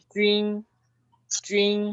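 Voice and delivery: "trin" high, level and drawn out; pronunciación modelo. Shown as a demonstration. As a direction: say "trin" on a sustained Chinese first tone. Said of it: "le agregamos una N". ("trin" agudo, plano y alargado)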